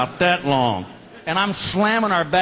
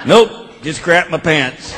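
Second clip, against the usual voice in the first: slow sarcastic reply; slow deadpan sarcasm; 6 dB louder, slower than usual. Retold or imitated. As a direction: drawl the comeback dryly. Deadpan punchline.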